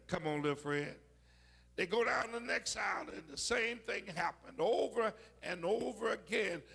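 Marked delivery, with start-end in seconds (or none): 0.1-1.0 father brushing off. Retold or imitated.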